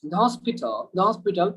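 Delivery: "hospital" said the British way, open short o; British pronunciation demo. Shown as a demonstration. Teacher modelling British "the hospital" for the class. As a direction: model "the hospital" slowly for students.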